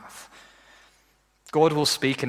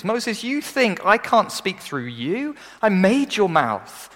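emphatic God voice; 7 semitones higher, 4 dB louder, slower than usual. Retold or imitated. God voiced answering Moses.

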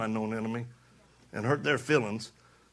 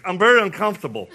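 nervous guy; 6 semitones higher, 11 dB louder, faster than usual. Retold or imitated. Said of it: "He's like".

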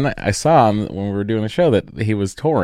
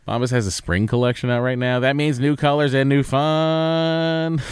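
lively, casual host ad read; podcast ad read. Acted. Host pitching socks to podcast listeners, ad read. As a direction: sell it playfully to loyal listeners.

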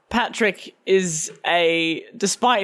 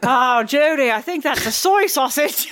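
mock Irish line; 6 semitones higher than usual. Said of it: "Accents are rough".

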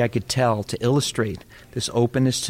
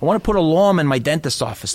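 put-on Boston accent; 2 semitones higher than usual. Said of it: "different accent".

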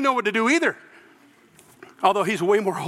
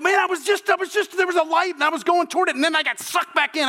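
dazed revived man; 7 semitones higher than usual. Retold or imitated. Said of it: "if he said".

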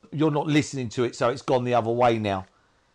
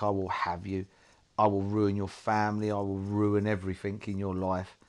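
menacing addiction voice; 6 semitones lower, 4 dB quieter than usual. Retold or imitated. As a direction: speak low as the addiction lurking and waiting. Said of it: "The therapist sat there as my addiction".

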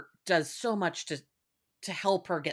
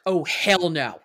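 louder, emphatic hell no; playing a tough inmate flatly refusing; mock disgusted refusal; 6 dB louder, much slower than usual. Voicing prisoners rejecting molester.

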